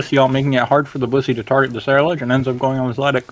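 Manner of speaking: talking while chewing caramel; mouth full. Real, not acted. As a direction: chew as you speak. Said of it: "Do you have gum in your mouth?".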